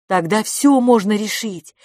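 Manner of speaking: usual speaking voice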